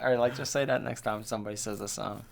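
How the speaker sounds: words slowed by laughter; laughing suggestion. Real, not acted. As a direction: chuckle through the dare. Laughing at friend's joke.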